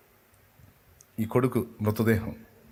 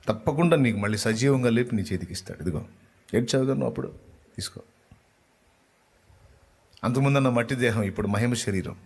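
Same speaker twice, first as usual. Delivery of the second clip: ordinary delivery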